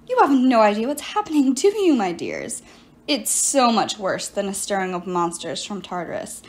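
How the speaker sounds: lightly voiced sorceress, self-pitying; a hint of a wronged enchantress pleading her case; sorceress Medea. Medea explains herself to Piper, lightly voiced silky sorceress.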